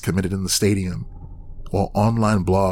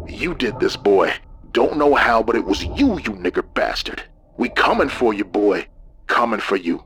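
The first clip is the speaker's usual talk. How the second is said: hissed threat. Acted. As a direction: spit the threat, venomous. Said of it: "He hissed into the phone".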